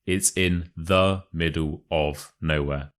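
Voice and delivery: slow demo, "the" as "thuh", "of" as "ov"; careful, word-by-word "the" as "thuh" and "of" as "ov". Shown as a demonstration. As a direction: say "of" slowly with a clear V. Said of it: "the of is a ov".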